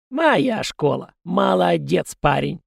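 slow, high, falling smug boast; smug triumph. Acted. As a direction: land «моя» with a firm falling tune. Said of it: "Очень довольный собой призрак". (самодовольно, «моя» с падением)

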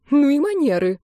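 high, outraged exclamation; scandalized. Acted. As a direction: gasp out in scandal. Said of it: "поддакнула её подруга".

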